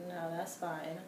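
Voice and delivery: low-key deadpan refusal; unimpressed, giving nothing away; straight-faced. Retold or imitated. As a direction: turn it down with a straight face. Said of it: "I gave him that straight face".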